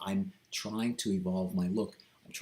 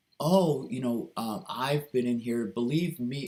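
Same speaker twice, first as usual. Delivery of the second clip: play-acted joking, half-laughing kidding delivery; 4 semitones higher, 4 dB louder than usual. Retelling an encouraging person's joking reply: imitating someone joking and laughing. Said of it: "she was kidding, she was joking, sort of laughing".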